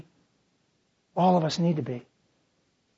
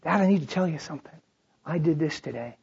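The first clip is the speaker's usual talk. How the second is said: put-on child's confession; 4 semitones lower, 5 dB quieter than usual. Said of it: "But when they come".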